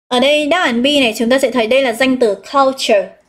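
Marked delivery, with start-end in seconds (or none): 2.4-3.2 culture with stress on CUL; stress on first syllable. Shown as a demonstration. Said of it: "chúng ta sẽ nhấn stress vào một". (nhấn âm đầu của culture)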